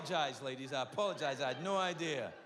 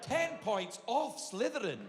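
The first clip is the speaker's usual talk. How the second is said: strict headmistress; 3 semitones higher, slower than usual. Retold or imitated. Doctor as stern teacher.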